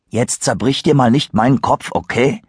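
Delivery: lightly voiced relaxed Kyle; Kyle, dismissive. Kyle brushes off Christopher's fears, lightly voiced. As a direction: wave off the worry.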